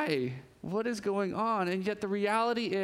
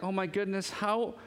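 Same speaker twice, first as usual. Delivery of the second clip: incredulous scroller; 3 semitones higher than usual. Retold or imitated. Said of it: "and they're like".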